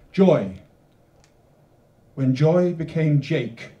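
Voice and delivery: measured reading with long pauses between phrases; poem reading. Acted. Poet reading her Joy poem to the audience, measured and deliberate. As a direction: read it slowly, letting each line land.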